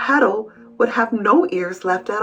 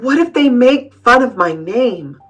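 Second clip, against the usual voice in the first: building higher into a near-cry; mounting panic; 5 semitones higher, 4 dB louder than usual. A narrator's reading. Wimberly fretting before school, panic building to tearful. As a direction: pile up the what-ifs, rising and louder. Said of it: "a long list of worries".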